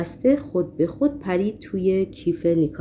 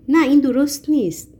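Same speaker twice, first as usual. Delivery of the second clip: امتناع ساختگی; 6 semitones higher, 5 dB louder than usual. A narrator's reading. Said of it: "وانمود کرد که قصد پس زدن آن را دارد".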